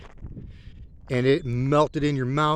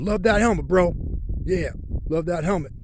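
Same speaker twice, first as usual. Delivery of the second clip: imitating a compliment; 5 semitones higher than usual. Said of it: "I got two people said".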